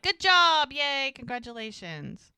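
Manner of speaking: high, loud mock cheering; imitated shout of congratulations; congratulating cheer. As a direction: whoop it like a crowd, then ease off. Retold crowd congratulating the winners.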